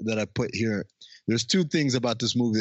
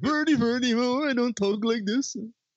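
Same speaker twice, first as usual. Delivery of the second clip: lower, put-on mock-Swedish voice; 11 semitones higher than usual. Discussing an actress's accent, showing how he doesn't really talk: Swedish Chef voice. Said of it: "I do my Swedish chef".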